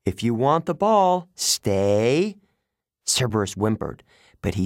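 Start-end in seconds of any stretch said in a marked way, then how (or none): 0.0-2.4 stern dog-training order; firm command. A narrator's reading. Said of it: "Annabeth ordered the monster".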